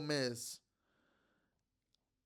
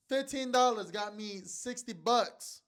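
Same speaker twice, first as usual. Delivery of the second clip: excited; 6 semitones higher, slower than usual. Real, not acted. Bragging about winnings.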